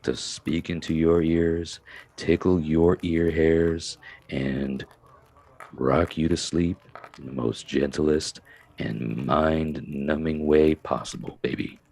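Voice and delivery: low, slow voice to rock someone to sleep; soothing lullaby voice. Shown as a demonstration. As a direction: ease them gently toward sleep. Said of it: "Something like that".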